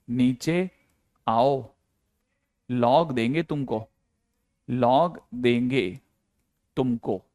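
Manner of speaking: drawn-out coaxing call, word by word; slow mock call. Shown as a demonstration. Teacher pretends to call n down with a log, slow coaxing call. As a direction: call it slowly, pausing between words. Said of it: "नीचे से आवाज लगाओ कि".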